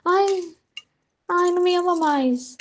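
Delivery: high, sulky ai ai, pouting; whiny mock complaint. Luísa fretting when Jesus disappears, mock whine. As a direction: play the needy soul whining he's gone. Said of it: "ela fica".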